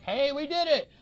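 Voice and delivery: high, loud imitated triumphant cheer; mock cheer. Friend quotes Mysterio leaving the bar in a loud mock cheer. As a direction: burst out like a winner celebrating.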